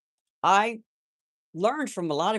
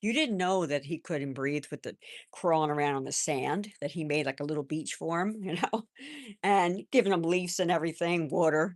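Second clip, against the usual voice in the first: comforting grandson. Retold or imitated. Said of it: "to comfort him".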